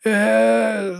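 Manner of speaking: high drawn-out hesitant stammer. A narrator's reading. Manager faced with the troll, stammering. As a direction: freeze up mid-word. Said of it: "затнувся Нудель".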